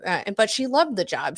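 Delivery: ordinary delivery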